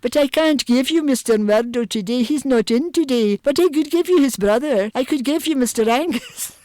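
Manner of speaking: very slow Highland lilt, high and loud; leisurely Highland woman, pitched well up; gorgeous Highland accent. Retold or imitated. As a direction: draw it out like an unhurried Highland receptionist. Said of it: "with this gorgeous Highland accent".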